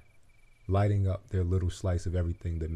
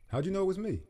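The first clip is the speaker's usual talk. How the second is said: put-on higher, wondering young voice; eager butterfly; 12 semitones higher, faster than usual. A narrator's reading. Butterfly asking the ladybug, higher and amazed. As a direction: ask it breathless with wonder.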